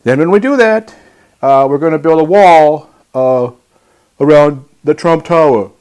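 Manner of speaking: Donald Trump impression. Host mimics a candidate addressing the United Nations, blustering. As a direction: work the crowd like a boastful politician. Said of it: "I'm gonna go to my Donald Trump impression".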